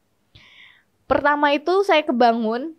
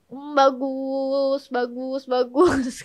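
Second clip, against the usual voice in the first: secret glee; much slower than usual. Retold or imitated. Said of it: "Padahal sih".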